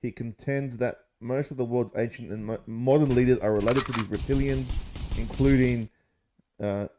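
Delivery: slow, deliberate read-aloud of an article. Acted. To his mates, reading David Icke's theory aloud, slow and deliberate. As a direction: read it out like a text, mildly dramatic.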